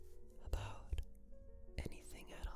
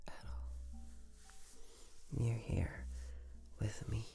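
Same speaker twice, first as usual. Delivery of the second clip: sweet nothings; 4 dB quieter than usual. Acted. Boyfriend soothing sweet talk.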